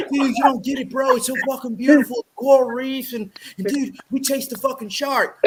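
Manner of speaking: laughing surfer dude, quick; a hint of a stoked surfer bro; Surfer Bob voice. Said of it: "Surfer Bob voice".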